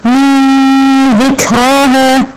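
slow من ذكراها, nun melted into a nasal hum; ikhfa nasal. Shown as a demonstration. Teacher modelling ikhfa for the student. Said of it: "النون مع الذال دي إخفاء".

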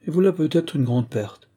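put-on old shopkeeping mother exclaiming to her daughter. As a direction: cry out briskly, brushing the loss aside. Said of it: "s'écria la vieille régente".

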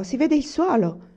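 high, loud exclamation; crying out. A narrator's reading. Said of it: "gridò".

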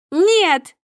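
very high, loud scream; a piercing scream of refusal; shrieking no. A narrator's reading. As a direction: screech it in panic. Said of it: "визжит Снежана".

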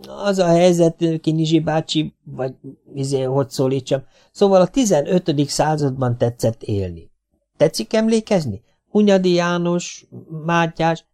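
hesitant, high explanation; awkward explaining. A narrator's reading. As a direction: explain haltingly, feeling for the words. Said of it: "Gézuka kezdett magyarázkodni".

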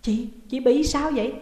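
high, loud, alarmed questions; panicked voice. A narrator's reading. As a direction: cry out in panic for a sister in danger. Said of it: "giọng hốt hoảng". (giọng hốt hoảng, kêu to)

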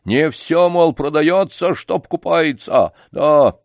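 put-on old man calling the dog and the boy to leave. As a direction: end the talk loudly. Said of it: "возвысил голос дедушка".

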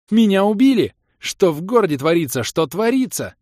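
very high, loud frantic cry; panicked scream. A narrator's reading. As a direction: burst in shouting in panic. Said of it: "сходу закричала волшебница".

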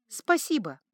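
barely audible, rasping; hoarse whisper. A narrator's reading. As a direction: rasp it out weakly. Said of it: "еле слышным и жутко хриплым". (еле слышно и хрипло)

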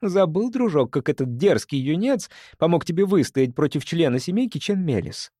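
sharp, biting reproach; venomous reminder. Acted. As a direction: needle him with it. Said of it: "ядовито напомнила она".

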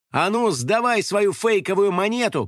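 firm, high command; a girl orders the blogger to surrender the fake coin; ordering. A narrator's reading. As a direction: hand it over, no arguing. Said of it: "приказала в ответ Кристина".

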